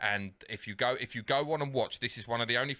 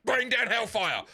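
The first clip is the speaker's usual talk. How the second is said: loud, high, slow order; big drawn-out acted shout; mock villain command; 9 semitones higher, 6 dB louder than usual. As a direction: bellow it like a villain calling an attack. Acts out Thanos ordering attack.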